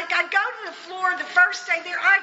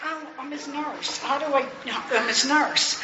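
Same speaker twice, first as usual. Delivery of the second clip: much softer, stunned to herself; dazed realization; 5 dB quieter than usual. Retold or imitated. New nurse realizing the patient is hers, stunned and soft. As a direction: murmur it in shock. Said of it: "I'm a wreck".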